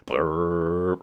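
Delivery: rolled, drawn-out "brrr"; imitated motor whirr. Reviewer mimicking another plane's flaps, imitated whirr. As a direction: trill it like a flap motor.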